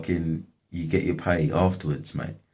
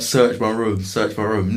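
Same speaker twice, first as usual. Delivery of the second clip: pitched-up, louder retold protest, easing on the repeat; mock indignant challenge; 5 semitones higher, 6 dB louder than usual. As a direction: imitate his insistent dare, high and loud. Acted challenge in retold argument.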